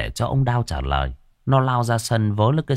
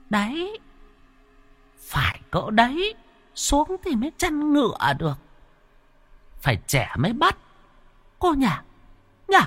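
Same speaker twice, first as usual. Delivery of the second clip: eerie possessed woman. Acted. Possessed wife eyes her son in a high eerie voice. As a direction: purr it like a spirit eyeing prey. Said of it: "vén nét cười ma mị".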